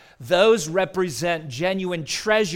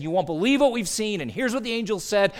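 higher-pitched retold excitement; excited shepherds; 5 semitones higher, faster than usual. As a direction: voice the shepherds' breaking news, mildly enthusiastic. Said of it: "with all that excitement and enthusiasm".

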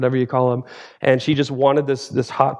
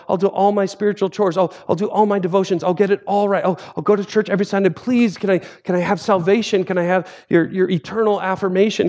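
put-on higher, pleading like an anxious child; begging believer; 4 semitones higher than usual. Believer begging Jesus to earn salvation, in a higher pleading voice. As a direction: beg Jesus over and over, a touch frantic.

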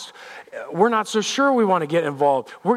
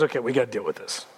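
lower, softer, quick aside; unruffled Jesus; 7 semitones lower, 6 dB quieter, faster than usual. Acted. Jesus answering the crazy crowd, low quick aside. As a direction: drop to a low, dry undertone. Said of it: "And Jesus goes".

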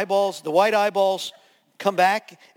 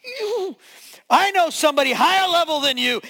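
loud, high rebuking command; commanding shout; 8 semitones higher, 4 dB louder than usual. Retold or imitated. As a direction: cast it out with full force. Pastor commands the demon out.

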